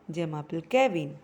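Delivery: "Gemapel Kevin." dropped back low and settled; plain settled reply "Gemapel Kevin."; normal answer pitch. Shown as a demonstration. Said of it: "then it should be normal".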